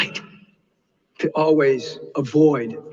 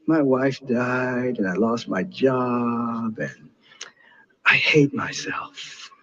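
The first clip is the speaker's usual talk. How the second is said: despairing; 4 semitones lower, much slower than usual. Retold or imitated. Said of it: "And the guy says".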